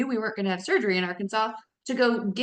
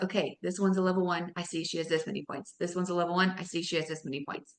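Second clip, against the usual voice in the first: muttered self-talk; 4 semitones lower, 5 dB quieter, faster than usual. Retold or imitated. Quoting her own checking.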